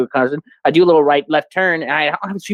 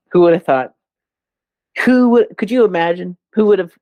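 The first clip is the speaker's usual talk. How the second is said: hammed-up disbelief, pitched up; mock amazement; 6 semitones higher than usual. Joking to his friend about his job history, mock amazed.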